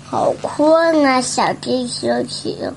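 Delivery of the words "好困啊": drowsy, drawn-out yawn voice; sleepy. Acted. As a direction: say it slowly, half asleep.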